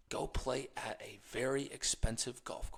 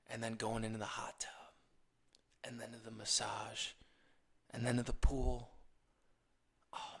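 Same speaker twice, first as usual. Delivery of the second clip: hushed, longing daydream voice; dreamy whisper; 2 semitones lower than usual. Pretend. Imagining the spa life to herself, wistful whisper. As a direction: breathe it like a wish you can almost taste.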